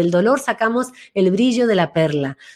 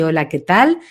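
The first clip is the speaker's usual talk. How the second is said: lower, grounded greeting; 5 semitones lower than usual. Shown as a demonstration. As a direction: drop the voice and say hello with presence. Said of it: "la voz le bajó, así".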